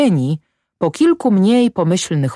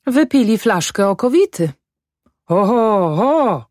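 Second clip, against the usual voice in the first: high-pitched housewife taking in the scene; acted wifely dismay, pitched up; exclaiming wife; 7 semitones higher than usual. Wife exclaims at drunken men.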